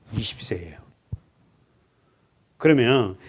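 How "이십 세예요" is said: whisper. Real, not acted. Answering own question softly.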